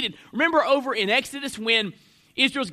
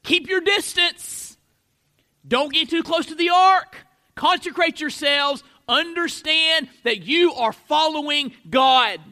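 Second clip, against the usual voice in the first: raised, deliberate warning in separated phrases; high-pitched, measured pulpit exhortation; emphatic preaching; 5 semitones higher, 3 dB louder than usual. Acted. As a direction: press each command home, higher and firmer. Preacher voices God's warning to Israel.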